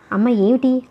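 ordinary delivery

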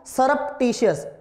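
सरप्टिशियस drawn out slowly; slow pronunciation model. Shown as a demonstration. Teacher asks students to say it, slow model pronunciation. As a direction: say it slowly for repeating. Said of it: "बोल के दिखाना".

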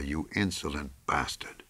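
low, hushed curse; quietly cursing him in your head; inner thought. A narrator's reading. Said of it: "thought McComber".

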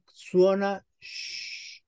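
sh stretched very slowly; slow drawn sh demo; drawn-out sh sound. Shown as a demonstration. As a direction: hold the sh in suona sh. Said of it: "la S, la C e la I".

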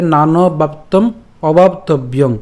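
slow, drawn-out verse line; joined recitation. Shown as a demonstration. Teacher reading the parts together, slow recitation. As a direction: recite deliberately, ending on a nasal. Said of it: "তখন আমাদের উচ্চারণটা কেমন হবে?".

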